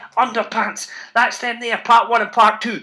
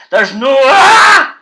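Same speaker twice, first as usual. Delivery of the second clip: exasperated cry; 3 semitones higher, 8 dB louder, much slower than usual. Acted. Exasperated with giggling kids.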